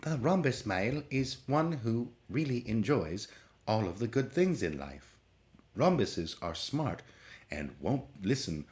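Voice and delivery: lightly put-on British computer narrator, slowed down; a hint of a robotic British documentary voice; mock female British computer voice. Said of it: "a computer read whatever I'm saying in a female British voice".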